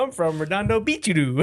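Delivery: hammed-up Japanese-English with an added vowel ending; mock Japanese accent. Host quoting an SNL skit, mock Japanese accent. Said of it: "stupid Japanese".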